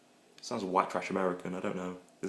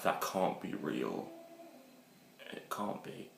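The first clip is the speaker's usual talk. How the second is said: stunned disbelief; 9 dB quieter, slower than usual. Retold or imitated. Disbelief at the video.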